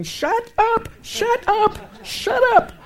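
loud, high-pitched reenacted yelling; losing temper. Preacher re-enacts yelling at her phone's AI voice, furious shout. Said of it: "I'm losing my temper".

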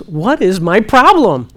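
a slow, sincere what is my problem; slow honest question. Shown as a demonstration. Asking God plainly, slow searching question. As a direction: ask it slowly, each word weighed. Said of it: "What I say is".

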